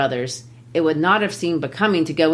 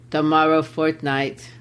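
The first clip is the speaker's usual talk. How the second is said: put-on a light German accent, matter-of-fact; clipped German-English reply; broken German English. Teacher voicing Gessler with a mild German accent. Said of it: "I'll practice my broken German English".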